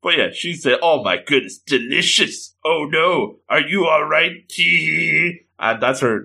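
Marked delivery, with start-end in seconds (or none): 0.8-5.4 lightly voiced spooky ghoul girl. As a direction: play the creepy ghoul with mock sweet concern. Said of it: "that's her spooky, uh, ghoul voice".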